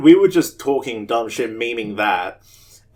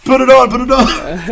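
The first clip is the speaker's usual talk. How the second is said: loud high yell through laughter; laughing shout; 13 semitones higher, 10 dB louder than usual. Retold or imitated. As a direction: shout it eagerly while laughing.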